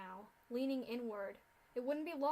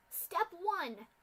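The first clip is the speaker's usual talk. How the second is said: high, loud battle command; screamed order; 7 semitones higher, 7 dB louder than usual. Acted. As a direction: scream the first step. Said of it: "Scootaloo screamed".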